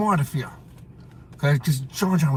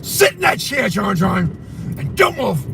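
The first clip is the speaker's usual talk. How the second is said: strict father order; 3 semitones higher, slower than usual. Retold or imitated. Father ordering John John to sit still, stern. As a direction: repeat the order like a hard father. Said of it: "His father would tell him".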